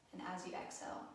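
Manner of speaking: calm, even guided-meditation delivery with long pauses; guided relaxation. Acted. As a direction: gently guide them through breath awareness, unhurried. Leads a guided breathing relaxation.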